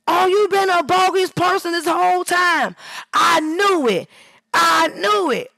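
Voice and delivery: high, loud, slow gloating voice; mock gloating. The verifier mocking after the backhand, loud gloat. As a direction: sneer it like you caught them.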